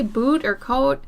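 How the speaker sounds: "boot" and "coat" with Minnesotan vowels peeking out; a light Minnesota touch on "boot" and "coat". Shown as a demonstration. Showing how the accent peeks out in "boot" and "coat", Minnesota vowels. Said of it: "it peeks out. That's what I'm saying".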